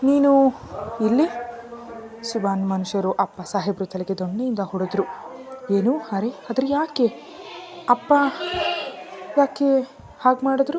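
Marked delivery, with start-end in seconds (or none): 0.0-1.3 loud, high startled question to her brother; surprised call. Acted. Running down to her brother, loud surprised call. 5.7-10.8 high, louder broken questions of alarm; gasping out why in shock; shocked disbelief. Acted. Hearing her father was hit, shocked and alarmed.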